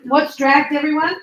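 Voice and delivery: loud question thrown to the whole room; calling out. Real, not acted. Teacher asks the whole class, loud. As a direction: call it out to everyone.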